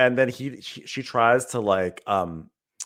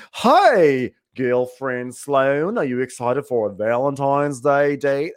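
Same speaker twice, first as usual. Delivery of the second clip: mock smooth charmer; much slower than usual. Recapping a movie, mocking the hero's slick greeting. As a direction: ham up a smooth guy greeting his girlfriend.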